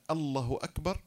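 "الله" with doubled l and short vowel, as Allahu; "الله أكبر" with no long aa, ending on a rise; lengthening left out. Shown as a demonstration. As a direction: clip the vowel after the l in "الله" before "أكبر". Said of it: "لا بد من مد اللام".

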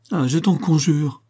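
wife clinging to her husband, pleading high and slow; pleading cry. A narrator's reading. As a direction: beg him, high and slow. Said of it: "s'écria-t-elle".

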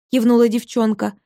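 usual speaking voice

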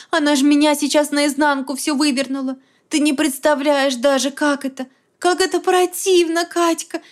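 a hot rush of distress; heated upset. A narrator's reading. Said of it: "заговорила быстрым горячим шёпотом".

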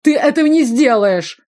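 high, loud snapping retort; snapping back. A narrator's reading. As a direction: snap back defiantly. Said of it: "огрызнулся Иоланд". (высокий громкий огрызающийся ответ)

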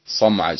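صمعج with a clear emphatic sad, not a sin; corrected emphatic sad. Shown as a demonstration. Teacher corrects the student, stressing the emphatic sad. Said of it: "صاد ميم عين جيم".

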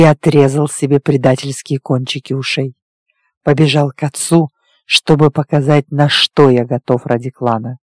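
low, even male character voice; werewolf recounting his past. Acted. Werewolf telling his lover of his childhood, restrained low voice. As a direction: tell a painful history with restraint.

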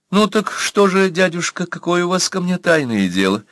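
young woman's voice, distracted and light; lightly voiced distracted girl; absent-minded question. A narrator's reading. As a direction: ask offhandedly, mind elsewhere. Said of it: "рассеянно спросила Анна".

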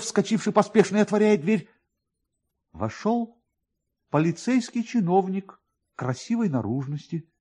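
ordinary delivery

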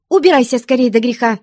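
fast, loud, high cry of warning; shout. A narrator's reading. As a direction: shout him out the door quickly. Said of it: "крикнула". (быстрый громкий окрик)

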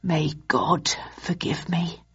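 whispered, breathy prayer. Acted. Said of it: "He sighed deeply".

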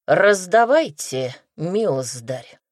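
slurred, barely moving tongue; drunkenly slurring the words; blackout drunk. Acted. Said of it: "еле ворочая языком".

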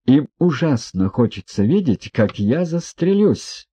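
rising high, slowing at the end; lashing out. A narrator's reading. Ippolit turns on Yevgeny Pavlovich, lashing out. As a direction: throw it at him like an attack. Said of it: "скинулся на него Ипполит ... точно накидываясь".

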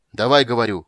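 loud, angry shout; shouted order. A narrator's reading. Sorcerer shouts at Geralt to fight, loud and angry. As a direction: bark the order at him. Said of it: "крикнул он".

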